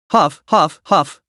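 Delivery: exhausted huffing breaths; heavy panting. A narrator's reading. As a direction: pant hard, worn out. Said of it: "Jiang Han's breathing grew heavier".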